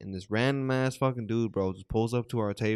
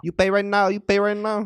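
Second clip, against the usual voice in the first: high, loud Asian accent impression; 8 semitones higher, 5 dB louder than usual. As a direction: mimic a pushy waiter with an Asian accent. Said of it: "Asian accent asking me".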